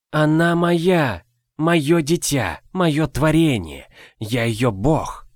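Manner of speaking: slow, high, possessive cry; possessive shout. Acted. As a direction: claim her as your creation, slowly. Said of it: "кричал он моим голосом". (медленный высокий собственнический крик)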